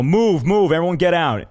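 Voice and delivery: half-shouting everyone out of the room; retold evacuation shout. Fake fire sergeant orders the staff out, in a mild mock shout. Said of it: "go out there and go".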